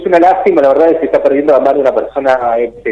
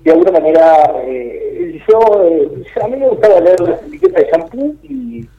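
in the bathroom. Real, not acted. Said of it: "No, no se lo escucha bien".

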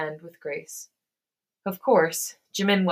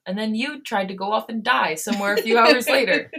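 raised voice, higher and louder; upset accusation; 4 semitones higher, 8 dB louder than usual. Acted. Hosuk berating his sick friend for trying to die, upset and loud. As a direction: throw it at him, rising to an exasperated outburst. Acted friend's angry outburst.

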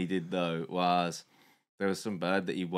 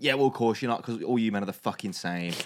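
retold angry rant; 3 semitones higher, 6 dB louder than usual. Angry date ranting at the man who wants nothing serious: mock furious. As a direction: play her going off at him, half-hammed. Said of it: "started going off on him".

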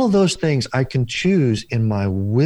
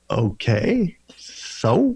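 unimpressed so; much slower than usual. Retold or imitated. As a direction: shrug it off as no big deal. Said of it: "And I said".

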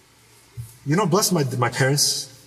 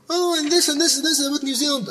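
mocking the woman; 9 semitones higher than usual. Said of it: "she was kind of helping him sell".

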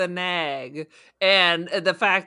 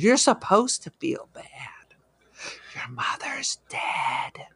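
mock whisper. Friend mocking the film's guilt trip in an eerie whisper.

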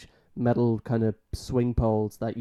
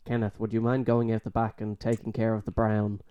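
nasal voice. Retold or imitated. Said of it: "had this, like, nasally voice".

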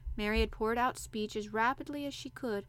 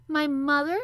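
surprised; 6 semitones higher, 11 dB louder than usual. A narrator's reading. Surprised boy.

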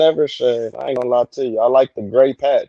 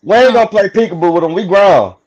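firm refusal; 6 semitones higher, 4 dB louder, faster than usual. Real, not acted. Refusing to play peekaboo.

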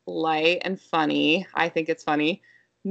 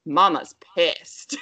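slow, drawn-out imitation of a toddler; toddler announcing; 4 dB louder, much slower than usual. Toddler sees mom irritated over groceries, slow blunt announcement. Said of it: "She's like".

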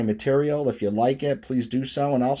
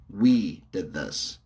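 slow demo phrase; 4 semitones lower, much slower than usual. Shown as a demonstration. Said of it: "using the word "we".

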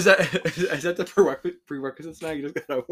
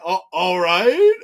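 mock resigned acceptance; 5 semitones higher, 10 dB louder, slower than usual. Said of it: "and you're like".

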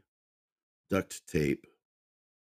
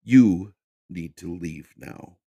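louder, slow and forceful; exclaimed; 8 dB louder, slower than usual. Acted. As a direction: spit out the order at him. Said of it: "Michael exclaimed".

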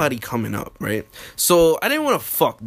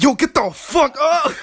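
higher, drawn-out urgent order; mock panicked plea to get up; stretched, high-pitched alarm; retold panic; 9 semitones higher than usual. Retold panic at being caught.

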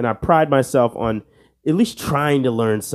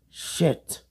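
whispered curse; 4 semitones higher, 8 dB quieter than usual. Real, not acted. Quiz reaction.

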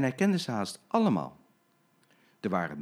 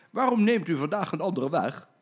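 higher, louder clever gentleman; suspicious question; 6 semitones higher, 5 dB louder than usual. Acted. Clever gentleman questioning the driver, suspicious. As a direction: query the route sharply. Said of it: "riep hij".

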